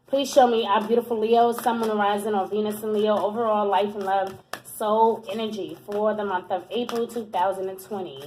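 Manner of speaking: low, soft prayer to the universe; hushed opening invocation before a reading; murmured invocation. Real, not acted. Asks universe to show reading.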